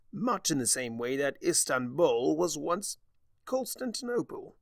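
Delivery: lightly voiced sly Discord. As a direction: savor the words smugly. Discord's quip.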